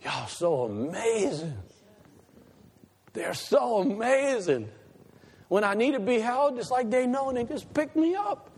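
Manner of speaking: a hint of a little child gushing; baby's voice. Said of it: "this is what they're saying".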